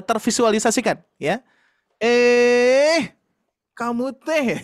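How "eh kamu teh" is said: sharp "Eh, kamu teh" pitched higher; a mother's quick reproach; scolding a child. Retold or imitated. Mother scolding her child, sharp and higher. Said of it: "biar tervisualisasikan".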